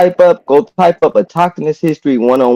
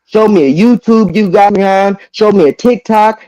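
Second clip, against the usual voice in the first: raised, higher, demanding voice; heated challenge; 4 semitones higher than usual. Real, not acted. Arguing with Haru on the panel, heated and raised. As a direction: press him hard, voice up in anger.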